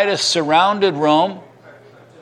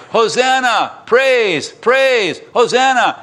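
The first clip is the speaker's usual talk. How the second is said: high, louder cries of praise; crowd shouting; 8 semitones higher, 3 dB louder, slower than usual. Retold or imitated. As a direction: call out Hosanna like the crowd. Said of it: "they were shouting".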